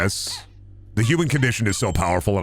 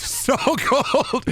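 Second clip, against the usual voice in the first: laughing squeak. Pretend.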